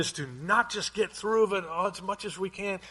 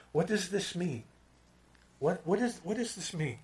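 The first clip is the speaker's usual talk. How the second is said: pondering; 5 dB quieter than usual. Pretend. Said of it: "we start thinking".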